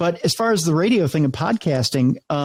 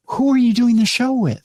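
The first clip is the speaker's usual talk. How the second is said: higher, louder mock-annoyed question; retold irritated demand; 8 semitones higher, 3 dB louder than usual. Engineer interrogating the host late at night, mock irritated. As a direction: grill him like a cranky engineer.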